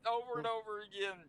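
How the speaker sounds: high, fast, giddy from laughing; real amusement lifting the voice high; cracking up. Real, not acted. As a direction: explain quickly while fighting laughter. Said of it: "That's why I'm cracking up laughing".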